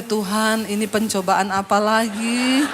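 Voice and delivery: low, slow inward plea; weary inner prayer. Retold or imitated. Pastor silently complaining to God, weary inner prayer. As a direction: drag out a put-upon thought to God. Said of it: "Dalam hati saya".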